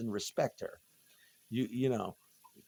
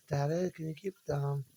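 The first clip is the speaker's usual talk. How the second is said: put-on higher, small child's plea; little girl voice; 3 semitones higher than usual. Neighbor's little girl asks Daddy to keep down, in a small child's voice. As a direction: plead like a tiny daughter. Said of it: "with her little voice".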